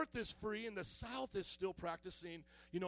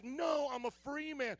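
insistent higher-pitched protest; Solomon; 5 semitones higher, 4 dB louder than usual. Acted. Chained Solomon arguing with his captor, insistent protest. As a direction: insist on it, voice lifted. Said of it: "he's like".

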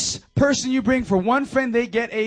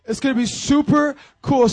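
laughing; 4 semitones higher than usual. Real, not acted. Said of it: "I'm trying different things up here".

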